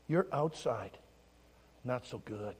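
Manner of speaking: low, soft, paused phrases; gentle admission. Retold or imitated. Pastor telling children about outsides, gently. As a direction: break it to them quietly.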